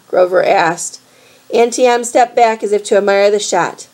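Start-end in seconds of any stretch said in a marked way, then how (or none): none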